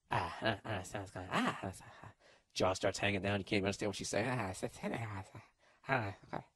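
quiet, stammering half-sob; hammed-up tearful gasps; mock crying breakdown. Podcaster acting the girlfriend starting to cry, mock sobbing.

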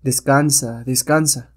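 commanding, soothing, a bit slow; a hero calming a hypnotized woman with a lulling voice; hypnotic voice. Acted. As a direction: lull her to sleep with your voice. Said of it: "Su voz es dominante y adormecedora".

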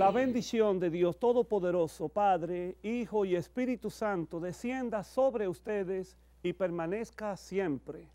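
slow, intoned liturgical blessing; solemn blessing. Acted. Priest gives final blessing.

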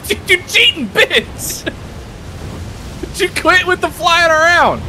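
loud, high scolding yell; angry shout. Real, not acted. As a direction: bark it at the enemy. Yelling at flying enemy.

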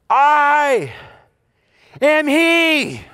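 ringing revelation from the pulpit; proclaiming as Jesus. Acted. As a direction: announce it with full conviction. Jesus reveals himself, preacher proclaims.

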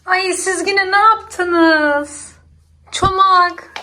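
surprised. Real, not acted. Catches baby and cat mid-mischief.

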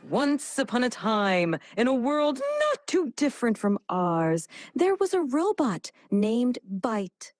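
grand, sweeping storyteller voice; maximal drama. Shown as a demonstration. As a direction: tell it like an epic, full of emotion. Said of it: "I really want maximal emotion, like, maximal expressiveness".

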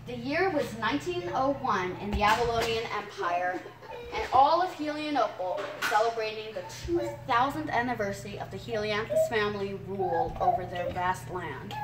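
storybook reading voice, steady and careful; story narration. Acted. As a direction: read it like a storyteller for the camera. Child reads own story aloud.

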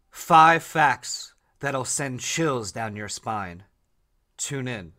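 slow, dramatic promo read; mock announcer teaser, measured out slowly; show teaser. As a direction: deliver a drawn-out hook for the show. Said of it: "Something that you can say".

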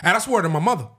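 put-on a playful New York street accent. Joking New York accent for his co-host. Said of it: "Is that New York?".

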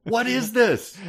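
high, laughing what-is-this; laughing disbelief. Real, not acted. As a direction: crack up in disbelief. Reacting to absurd poem.

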